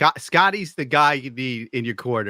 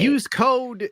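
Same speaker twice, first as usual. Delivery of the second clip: ad read voice; 12 semitones higher than usual. Pretend. Mock sponsor plug, no code.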